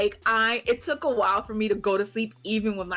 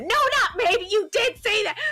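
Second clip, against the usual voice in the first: very high, emphatic retort; exasperated correction; 11 semitones higher than usual. Retold or imitated. Correcting her partner's half-admission, exasperated. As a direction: pounce on it in a high, indignant voice.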